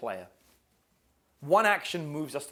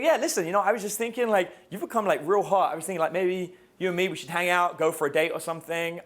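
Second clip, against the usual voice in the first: cocky flirt; 3 semitones higher, 4 dB louder than usual. Acted. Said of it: "You're like".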